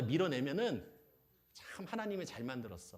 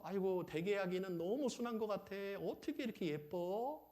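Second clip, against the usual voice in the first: put-on higher, cooing neighbour admiring a baby; 6 semitones higher, 3 dB quieter than usual. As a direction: gush over the baby, drawing out the end. (옆집 아줌마처럼 높은 소리로 예뻐하듯)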